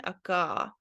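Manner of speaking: Aka as a-KAH, opening on ah. Shown as a demonstration. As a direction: say "Aka" with ah in place of O. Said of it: "Maybe the O is pronounced like A again".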